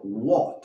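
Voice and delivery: "what" with a closed, rounded A like "wot". Shown as a demonstration. Teacher models the correct "what" with a closed vowel. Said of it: "Esa A es más cerrada".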